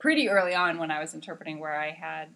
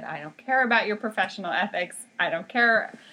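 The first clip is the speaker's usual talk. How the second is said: retold angry doctor; 3 semitones higher, 5 dB louder than usual. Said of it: "And he said".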